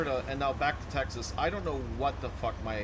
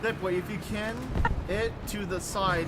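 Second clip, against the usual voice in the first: slower, higher Southern drawl; 7 semitones higher, 3 dB louder than usual. Shown as a demonstration. Repeating the race tip slowly in a Southern drawl. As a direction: stretch it out in a thick Southern drawl. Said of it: "This isn't English".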